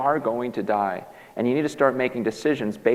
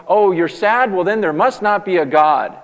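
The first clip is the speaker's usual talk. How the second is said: mocking skeptic; 9 semitones higher, 9 dB louder than usual. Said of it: "take it to the extreme of".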